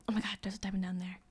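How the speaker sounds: quick excited whisper. Real, not acted. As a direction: hush it, fast and breathless. Spotting a diamond, hushed.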